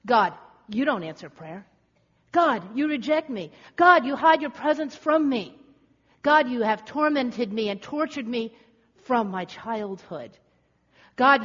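aggrieved charges, each punched on God; accusing psalmist. Acted. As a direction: lay the grievances before God. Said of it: "it's more of an accusation".

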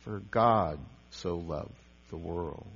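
"God" lifted and stressed, rest soft. Shown as a demonstration. Preacher showing a second reading, stress on God. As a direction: put the weight on "God". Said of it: "next time it might be".

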